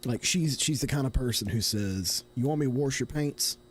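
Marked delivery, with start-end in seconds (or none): 2.3-3.6 imitated thick Southern holler talk; mock Appalachian Southern accent; mother's Southern accent. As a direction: mimic a mother's heavy Southern accent, pitched slightly up. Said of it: "one of the worst Southern accents".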